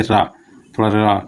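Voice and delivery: रा with the tongue vibrating; trilled r demo. Shown as a demonstration. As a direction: roll the tongue on रा. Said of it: "कंपन करना पड़ता हो". (रा कंपन के साथ)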